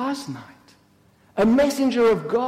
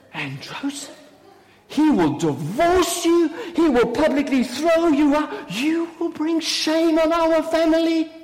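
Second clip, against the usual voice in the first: high-pitched dire warning; scolding outrage; 6 semitones higher than usual. Acted. Sister warning Mary of shame on the family, scolding outrage. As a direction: berate her with the disgrace to come.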